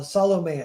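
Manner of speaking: Salome said SAH-lo-may, three syllables; corrected Salome. Retold or imitated. Team corrects the actress, Salome as SAH-lo-may. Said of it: "How do you pronounce".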